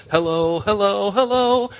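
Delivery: teasing hello to the congregation; rising hello call. Real, not acted. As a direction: call out to wake the room up. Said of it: "can you see this?".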